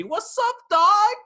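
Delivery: high, hammed-up cool-guy voice; cool slang lingo. Mocking the actor's cool lingo, high and put-on. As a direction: ham up a too-cool street drawl. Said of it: "breaks out his cool lingo, baby".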